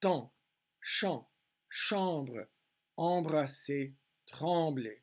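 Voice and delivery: "Temps, champs, chambre" each alone, falling, nasal AN; careful French word list; nasal vowel demo. Shown as a demonstration. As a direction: model "embrasser, trembler" with the French nasal AN. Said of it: "look at the middle part".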